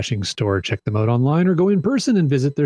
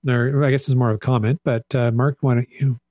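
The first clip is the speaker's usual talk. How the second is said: hoarse, fading voice from losing it. Real, not acted. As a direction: speak through a voice that's giving out. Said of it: "I'm losing my voice".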